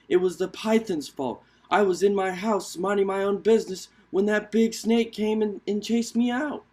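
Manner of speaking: stammering excuse from a scared creature; lightly voiced timid rabbit.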